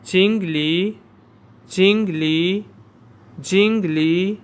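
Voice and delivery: जिंगली said clearly with a rising end; repeat after me. Shown as a demonstration. Teacher drilling students, clear, rising. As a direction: drill जिंगली for the class to echo. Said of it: "आप सब मेरे साथ पढ़ें".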